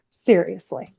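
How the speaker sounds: normal talking voice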